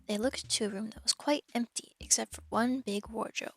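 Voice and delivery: measured, clear audiobook reading; steady storybook narrator; story narration. A narrator's reading. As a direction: read the story aloud to listeners. Reads the novel aloud to stream.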